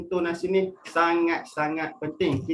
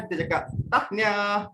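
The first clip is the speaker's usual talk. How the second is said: bright, pleased tahniah said with a lift; happy congratulations; 3 semitones higher than usual. Shown as a demonstration. Teacher congratulating a winning friend, happily. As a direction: say tahniah like you mean it. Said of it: "menunjukkan kita happy".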